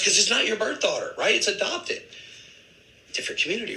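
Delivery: high, pointed. Retold or imitated. Coworker's point, retold.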